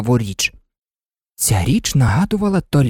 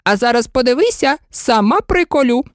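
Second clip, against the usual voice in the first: high, fluttering queen pleading; fussy queen; 11 semitones higher than usual. A narrator's reading. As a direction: coax her high and anxiously out of tears. Queen voice in story.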